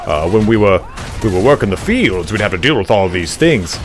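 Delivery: put-on folksy Southern gentleman accent. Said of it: "Southern gentleman style voice".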